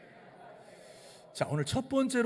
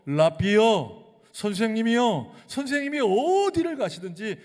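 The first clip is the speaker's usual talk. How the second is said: eager scribe; 8 semitones higher, 9 dB louder than usual. Acted. Scribe's eager pledge acted out.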